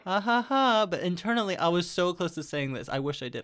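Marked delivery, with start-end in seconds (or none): 0.1-0.9 fake laugh. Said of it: "I was like".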